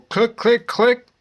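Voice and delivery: high, punchy click noises; quick imitation of tapping a phone; imitated clicks. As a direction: tap out each click with your voice, pitch jumping up.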